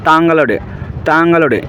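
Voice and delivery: তাঙ্গালোডে said syllable by syllable; teacher modelling তাঙ্গালোডে; Malayalam word demo. Shown as a demonstration. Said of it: "তোমারকে Malayalam ভাষায় বলা হয়".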